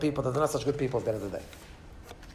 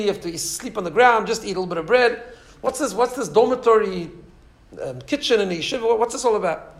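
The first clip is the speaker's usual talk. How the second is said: animated, higher-pitched objection; challenging; 4 semitones higher than usual. Retold or imitated. Donor challenges the rabbi over his dormitory, challenging. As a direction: argue the point like a doubting donor. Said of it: "so he challenged him".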